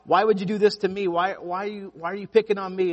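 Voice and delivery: pleading, high and loud; a man pleading loudly with God in the storm; crying out to God. Retold or imitated. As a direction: cry up to heaven in desperation. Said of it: "he starts crying out to God".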